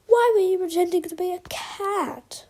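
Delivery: high startled whisper; shocked whisper. A narrator's reading. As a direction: gasp the question. Pigeon confronts villain.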